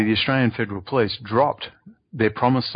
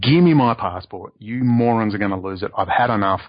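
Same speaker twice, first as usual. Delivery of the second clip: lost temper. Retold or imitated. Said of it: "I just lost it and said".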